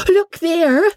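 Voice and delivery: very high eager exclamation; Polly urging Amelia to look; excited pointing. A narrator's reading. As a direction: point and call out in delight. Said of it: "answered Miss Clapp".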